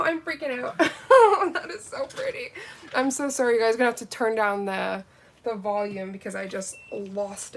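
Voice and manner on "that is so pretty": high, laughing gush; delighted laugh. Real, not acted. Freaking out over the glitter, laughing. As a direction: laugh it out, giddy.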